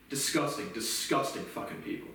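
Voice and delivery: drops to a breathy, near-whispered hiss. Real, not acted. Ranting about police, sinking into a disgusted whisper. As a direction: spit it out under the breath. Muttered disgust after rant.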